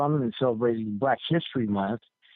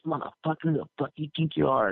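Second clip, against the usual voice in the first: higher-pitched, mildly indignant challenge; mock anger; 4 semitones higher than usual. Big man confronts the prankster, mock angry. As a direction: lightly act out an affronted man.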